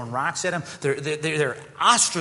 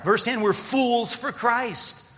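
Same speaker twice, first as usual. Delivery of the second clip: sarcastic; 9 semitones higher, 3 dB louder, much slower than usual. Acted. Preacher reads sarcastic verse.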